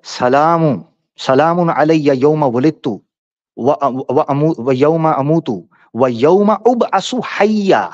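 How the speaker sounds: slow, measured Quranic quoting; Arabic verse recitation. Acted. Debater corrects a misread verse, slow Arabic recitation. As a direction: recite the Arabic slowly, phrase by phrase.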